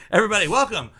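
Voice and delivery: hyped stage announcer. Pretend. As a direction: introduce the band like an MC. Announcing the new band.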